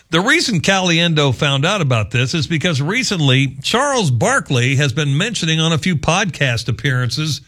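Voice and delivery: ordinary talk, nothing marked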